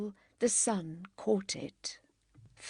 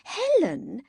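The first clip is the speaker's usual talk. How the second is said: usual speaking voice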